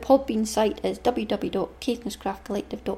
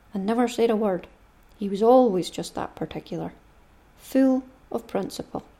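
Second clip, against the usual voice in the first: reading a novel aloud in a fuller, louder voice; story narration; 4 dB louder than usual. Acted. Mother reading Huck Finn aloud to podcast listeners, storytelling voice. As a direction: read it like a storybook chapter for the listeners.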